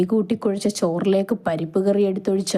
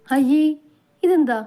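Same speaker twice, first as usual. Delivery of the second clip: high mock-shamed exclamation; chiding; 8 semitones higher, 3 dB louder than usual. A narrator's reading. Mother to tearful daughter at parting, chiding. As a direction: chide her lightly, pitch jumping up.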